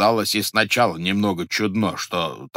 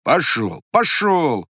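shouting; 5 semitones higher, 4 dB louder, slower than usual. Acted. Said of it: "кричал кузнец".

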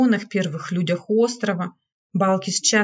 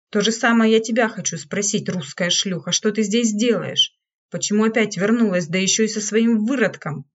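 ordinary delivery

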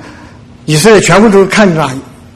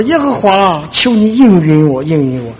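reads Elijah's prayer aloud as from the Bible; reading the prophet's prayer to the congregation, solemn; scripture reading; 3 semitones higher than usual. Shown as a demonstration. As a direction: lift the prayer off the page, earnest. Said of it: "我给大家读一下".

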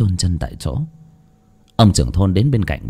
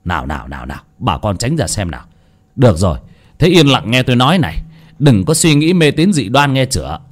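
a village chief shooing people off; stern scolding; 3 semitones higher than usual. Acted. Village chief scolding the crowd to go home, stern. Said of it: "ông trưởng thôn chạy ra nạt".

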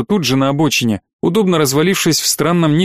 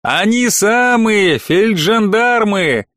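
soldier voice; 6 semitones higher, much slower than usual. A narrator's reading. Character voiced in story.

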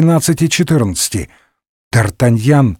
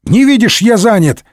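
mild mock yell; 8 semitones higher than usual. A narrator's reading. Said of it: "заорал Д'Артаньян".

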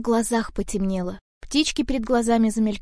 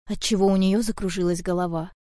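ordinary delivery, nothing marked

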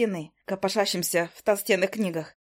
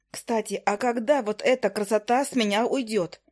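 usual speaking voice

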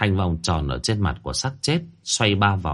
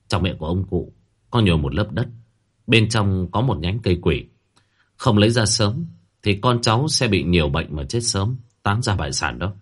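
usual speaking voice

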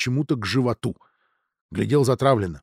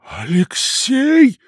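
stunned cry; 9 semitones higher, 6 dB louder, much slower than usual. Acted. Dudin realizes son's betrayal.

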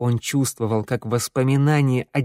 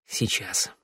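much softer, distant answer; quiet reply; 4 semitones lower, 8 dB quieter than usual. Acted. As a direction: answer absently, barely aloud. Theo answers dazed.

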